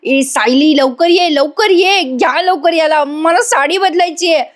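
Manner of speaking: fed up, hurry them along; irritated, mock. Priya snaps at Vimal and calls Sayali, mock exasperation. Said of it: "Priya वैतागून म्हणते".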